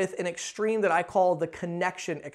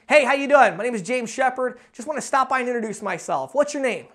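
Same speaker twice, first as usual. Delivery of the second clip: quick, louder go-go-go hello; match the busy boss's pace and energy; punchy, higher and louder intro; brisk energetic greeting; 3 semitones higher, 3 dB louder than usual. Shown as a demonstration. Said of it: "If I'm walking in and I see a guy busy".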